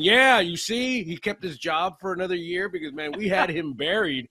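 mock boast. Mocking Woj's boast.

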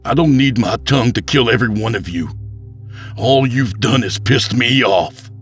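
high, fast, heated voice; angry threat. A narrator's reading. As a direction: threaten them all. Lila threatens the crowd through Tep.

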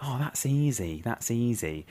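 quiet smug mutter; under their breath. Retold or imitated. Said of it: "saying under their breath".

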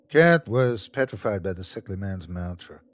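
usual speaking voice

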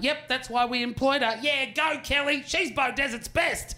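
lightly voiced cheerleaders; mock cheering; cheering commenters. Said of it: "people going".

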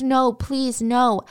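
begging. Retold or imitated. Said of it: "she begged".

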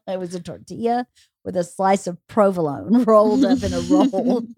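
giggling through the words; laughing. Real, not acted. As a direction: laugh while saying it. Laughing while teasing.

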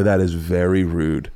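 low, very slow reprimand; stern scolding. Retold or imitated. Dad scolding daughter outside the store, stern. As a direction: imitate a dad holding it in, word by word.

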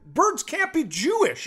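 high, slow, exasperated; mock frantic daughter. Daughter losing it over Jewish birds, high frantic disbelief. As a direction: pitch way up like she's losing it. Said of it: "She's going crazy".

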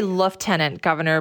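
"Lieutenant" said with an F, LEF-tenant; an F sound in the first syllable of "Lieutenant"; British pronunciation. Shown as a demonstration. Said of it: "I say Lieutenant Governor".

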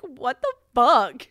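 loud, slow, drawn-out disbelief; mock outraged yell. Friend reacting to her daughter's text, imitating a loud, slow outraged yell.

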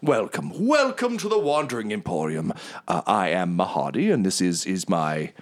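smooth, grand, apologetic host; oil every word with charm; lightly voiced theatrical merchant; Mahadi, gregarious tiger. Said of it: "he's like, Oh".

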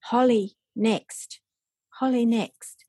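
put-on eager toddler offering a spot. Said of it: "And she said".

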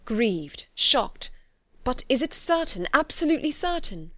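mildly shocked, rising to urgency; shocked cry. A narrator's reading. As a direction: press for certainty in disbelief. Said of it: "cried Darcy".

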